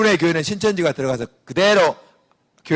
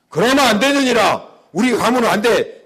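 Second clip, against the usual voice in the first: archaic scolding, higher and louder; stern mother-in-law; 5 semitones higher, 5 dB louder than usual. Retold or imitated. A preacher voicing a mother-in-law who forbids. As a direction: lecture like an old-fashioned mother-in-law.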